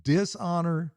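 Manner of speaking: rising, fired-up preacher push; a touch of fired-up pastor; getting fired up. Real, not acted. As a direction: let the conviction climb and lift. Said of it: "I'm getting a little bit fired up".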